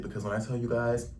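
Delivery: normal talking voice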